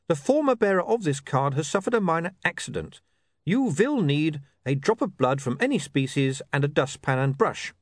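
reading a notice. Acted. Reporter reads the accident card aloud, measured notice voice. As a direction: read it off the card carefully.

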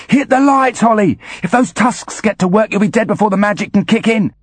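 high, pressing technician voice; Foley's voice. Acted. Foley urges over the radio.

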